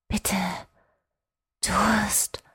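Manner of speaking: put-on a weak child begging for a drink; plaintive child. Newborn boy pleading weakly in the cow's mind. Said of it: "klagte der Junge in meinen Gedanken".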